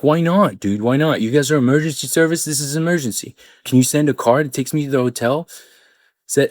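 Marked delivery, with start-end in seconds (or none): 0.0-5.5 exasperated plea. Retold or imitated. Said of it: "I was like".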